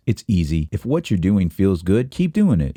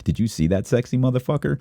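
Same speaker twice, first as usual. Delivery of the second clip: admiring onlooker; 6 semitones higher than usual. Retold or imitated. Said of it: "they say some shit like this".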